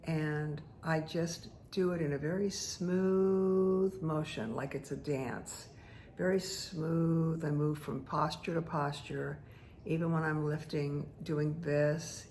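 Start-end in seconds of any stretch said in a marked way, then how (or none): 2.2-4.0 SMOOTH held long on one level, sustained note; long, gliding vowel in "smooth"; drawn-out smooth. Real, not acted. Stretches word to picture flowing motion. 6.2-7.4 "smooth" stretched on one steady pitch; slow "very", long held "smooth"; drawn-out smooth. Real, not acted. Repeats the stretched word for flowing motion.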